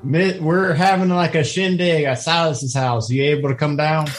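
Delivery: a touch of a Southern country twang; country accent. Acted. Filbert inviting Misty to a shindig in a mild country accent. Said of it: "When did your accent get so country?".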